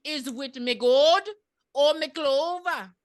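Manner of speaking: psychic character. Acted. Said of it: "And she's like".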